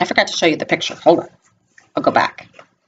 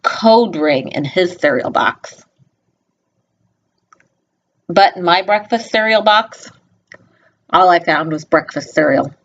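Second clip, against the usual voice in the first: storybook reading. A narrator's reading. Reads picture book aloud.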